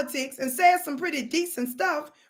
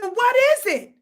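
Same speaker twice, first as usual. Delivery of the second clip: high, loud puzzled question; high mother voice; 11 semitones higher, 6 dB louder, slower than usual. Retold or imitated. Mother asks her son what he found, high voice. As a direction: ask what the thing is. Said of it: "she said".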